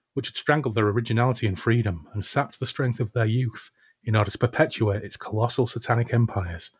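grand, steady book reading; old sci-fi announcer. A narrator's reading. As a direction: read it like a pulp sci-fi epic. Reads book passage aloud.

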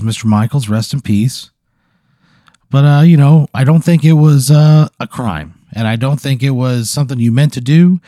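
a friendly creature voice, lightly played; lightly voiced snooze monster. Snooze monster consoling the player, lightly voiced.

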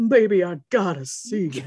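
put-on creepy boyfriend voice; creepy come-on, half laughing. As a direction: play him as a creep on the phone. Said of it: "why I gave him that creepy voice".

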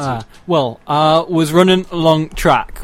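put-on thick Sheffield accent; broad Northern English, overdone. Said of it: "I can't tone down Northern".

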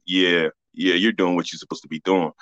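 low, understated grandmother imitation; grandmother's approval. Grandmother after first seeing the show, low quiet imitated approval. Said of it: "she was like".

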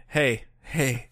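lightly imitated soothing voice; a hint of a calm, soothing hero; Charlie Cox's Daredevil. Co-host correcting the Cockney take, mock soothing. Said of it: "in a very soothing, calm voice".

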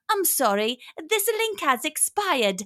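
mock English link announcer; fake English accent. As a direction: put on a fake English voice, slowly drawing out the apology. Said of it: "doing a fake English accent going".

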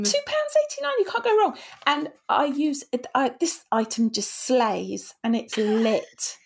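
put-on bubbly sorority girl. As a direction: gush like a trendy influencer. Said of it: "Oh, you're such an influencer".

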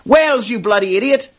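high mock screech, a touch hammed-up; angry screech. Offended woman shrieks at the bar stranger, mock angry screech. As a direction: snap back high, pretend outrage at the mix-up. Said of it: "One of them angrily screeched".

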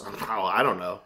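mock noncommittal reply; imitated evasive shrug. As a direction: drop the voice as you mimic someone brushing off a question.

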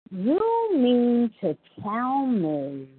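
slow, disbelieving judgmental tone. Retold or imitated. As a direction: talk down to her, slowly. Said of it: "judgmental in his tone of voice".

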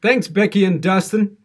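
loud, ironic thanks; mock gratitude through the burn; sarcastic thanks. Real, not acted. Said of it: "This is not enjoyable".

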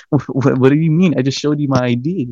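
mildly exasperated retold protest, stammered out; half-laughing indignation; laughing angrily. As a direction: protest through an angry little laugh. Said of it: "I'm laughing, but I'm laughing, like, angrily".

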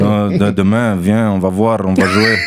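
put-on French with a Russian accent and rolled Rs; a kid's Russian-accented French, half laughing. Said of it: "Je parlais comme ça".

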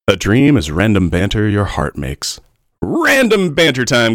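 slow dramatic announcement; segment announcer. Acted. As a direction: announce it grandly and slowly.

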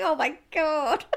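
slow, high laughing gasp; laughing exclamation. Retold or imitated. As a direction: laugh through the embarrassment. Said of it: "I was like".

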